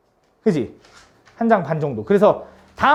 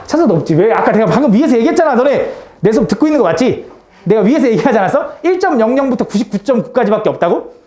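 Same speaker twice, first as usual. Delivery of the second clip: louder, reproachful questioning; mock scolding; 4 dB louder than usual. Real, not acted. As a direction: scold the class for not listening. Teacher scolds students for not listening. (다그치듯 목소리 높여 꾸짖기)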